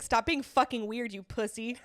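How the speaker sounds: mocking her friend's harsh put-down, half yelling; mock scolding yell. Friend mimicking Ange scolding Pierre, slow mock yell. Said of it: "She's like".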